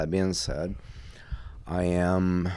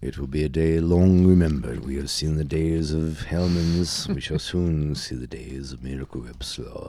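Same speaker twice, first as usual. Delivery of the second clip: epic proclamation; 3 semitones lower than usual. Acted. Epic proclamation about slaw.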